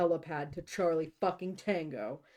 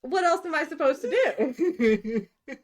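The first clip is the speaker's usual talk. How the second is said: laughing; 9 semitones higher, 8 dB louder than usual. Real, not acted. Loud laughing defense.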